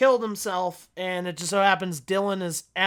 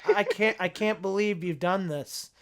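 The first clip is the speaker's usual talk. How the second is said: emotionless line reading. Retold or imitated. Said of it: "the way he's saying it is so just like".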